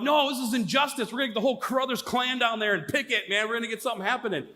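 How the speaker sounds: rally the family in comic outrage; worked-up, quickening protest; retold fired-up anger. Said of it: "I was just getting on fire".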